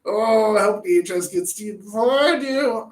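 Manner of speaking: hammed-up frustrated parent yelling in jest; exaggerated temper, light shout; mock angry parent. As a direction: fake rage, plainly joking. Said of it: "There's that temper".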